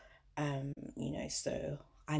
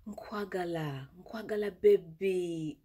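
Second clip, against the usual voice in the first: sweet-talking lover; slower than usual. Pretend. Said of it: "So you can be like".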